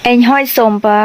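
a teacher says เอ็งห้อยส้มปะ for viewers to repeat; Lua phrase. Shown as a demonstration. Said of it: "เธอกินข้าวหรือยัง".

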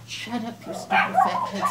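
mock angry quote. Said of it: "He says".

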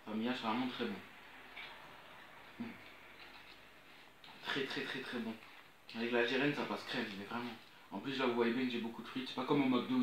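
chewing between words; talking while eating fries. Real, not acted. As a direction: mouth full of food. Seen 0: Picks fries throughout, fry at mouth 2.2, 12.0-12.9, chewing.

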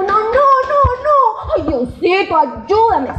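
very high panicked pleading. Retold or imitated. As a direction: beg God in mock panic. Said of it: "Y uno". (súplica aguda y asustada)

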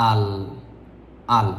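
"আল" as one joined syllable, alif into lam; model pronunciation. Shown as a demonstration. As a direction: demonstrate "আল" on its own, set off by pauses. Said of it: "এভাবে বলবেন". ("আল" আলিফ-লাম মিলিয়ে এক টানে)

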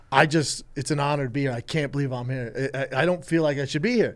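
quoting Gaffigan. Retold or imitated. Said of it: "He gets up there and he goes".

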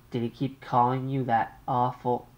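an anxious mother on the line. Acted.

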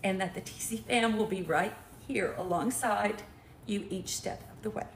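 low, measured card-reading voice; reading a note aloud. Real, not acted. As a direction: read the gift poem out to the room. Reads a gift note aloud.

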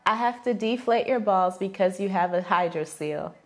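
low-pitched, even recital; deadpan challenge read. Real, not acted. Giving the partner a new phrase, deadpan.

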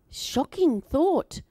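slow, drawn-out mock alarm; playfully scandalised; mock shock. Real, not acted. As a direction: savour the shock.

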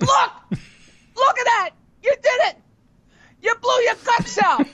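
high-pitched, exclaiming wife; hammed-up cries of horror; mock alarm. Wife shows husband the mess in bed, mock alarmed.

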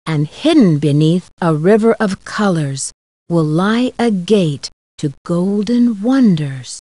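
slow, measured riddle verse; poem recitation. Acted. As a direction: recite it solemnly, pausing after each line.

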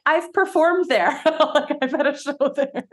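lightly mocking showbiz gush; gushing performers. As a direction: brag in a put-on high voice. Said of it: "both of them are like".

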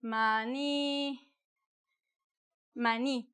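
Maní with the stress on the final i; accented i. Shown as a demonstration. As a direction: land on the last syllable of Maní. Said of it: "they call it maní".

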